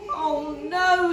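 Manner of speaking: loud, exasperated groan; a tired bear at the end of his rope; fed-up Mister Bear. A narrator's reading. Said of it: "said Mister Bear".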